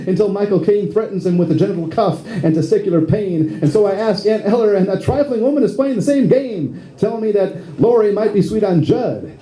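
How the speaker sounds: rhymed monologue in steady rhythm; comic spoken-word poem. Acted. Lead actor voicing Curly's inner monologue, rhythmic comic recital. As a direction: recite it as a rhyming comic piece.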